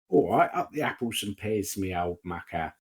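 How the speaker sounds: a hint of exaggerated movie Cockney; mock Cockney. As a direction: toss it off in a cheeky film-Cockney accent. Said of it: "Cockney accent from London".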